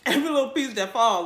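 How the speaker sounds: laughing loudly through words. Real, not acted. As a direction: laugh while saying it. Laughing about licking fingers.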